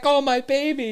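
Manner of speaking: high mock cry; freaking-out woman. Imitating the woman as her dog appears, high mock cry. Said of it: "she's, like, freaking out".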